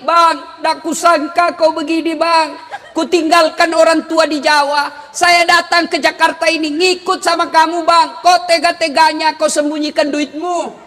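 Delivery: hammed-up aggrieved wife; acted wife's complaint. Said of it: "Boleh marah seperti itu".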